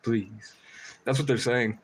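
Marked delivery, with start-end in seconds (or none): 0.0-0.5 pleading crow voice. Retold or imitated. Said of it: "Casey the Crow".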